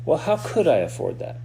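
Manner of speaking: open question. Shown as a demonstration. Coach showing clients the open question, curious and hopeful. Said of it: "See the difference?".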